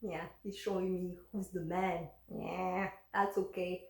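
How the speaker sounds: soft, low, amused murmur; a quiet knowing smirk; calm smiling aside. Retold or imitated. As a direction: smile and let him rave.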